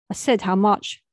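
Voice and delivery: a daughter repeats her question to her mum, very serious. Acted. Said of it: "very serious this time".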